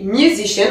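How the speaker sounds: "musician" with SI stressed; stress on second syllable. Shown as a demonstration. Teacher introduces an exception, second syllable stressed. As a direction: lean on the SI of "musician". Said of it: "c'est bien musician".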